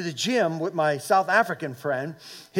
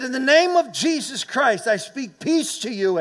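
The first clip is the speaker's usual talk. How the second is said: retold prayer declaration; 6 semitones higher than usual. Re-enacts praying over seizure victim.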